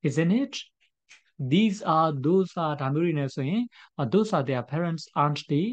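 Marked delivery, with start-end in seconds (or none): 0.1-0.5 This is Tura's pen said very slowly, word by word; slow example read. Shown as a demonstration. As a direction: dictate the example sentence slowly. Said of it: "for example".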